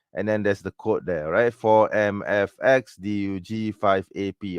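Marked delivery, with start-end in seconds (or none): 1.5-4.6 slow dictation. Real, not acted. Dictating a link code.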